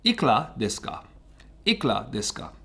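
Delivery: "Ikura desu ka" said as "ikla deska"; respelled pronunciation. Shown as a demonstration. Teacher reading out his respelling for learners, "Ikura" shortened to "ik-la". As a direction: squeeze "Ikura" into two syllables, like "ik-la". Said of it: "changed the spelling to this".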